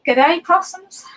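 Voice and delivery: high-pitched Australian housewife-star greeting; Dame Edna Everage. Acted. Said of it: "Dame Edna Everage".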